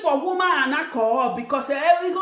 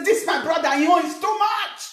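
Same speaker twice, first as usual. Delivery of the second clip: higher, indignant grumble about a brother; mock angry complaint; 5 semitones higher than usual. Relative griping that the brother abroad is stingy, mock indignant. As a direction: complain as if wronged. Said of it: "You will be angry".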